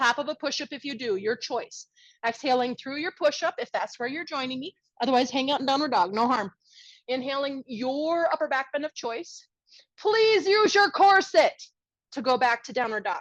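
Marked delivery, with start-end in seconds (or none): 10.0-11.6 yelled loudly. Yoga teacher cueing the class through an important transition, yelling. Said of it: "Sorry for yelling".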